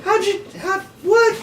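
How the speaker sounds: high, stunned half-questions; real astonishment at a magic trick; amazed stammer. Real, not acted.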